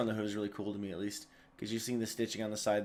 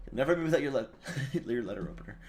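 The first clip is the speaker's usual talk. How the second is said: stutter; 2 semitones higher, faster than usual. Real, not acted. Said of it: "Stuttering over my words over here".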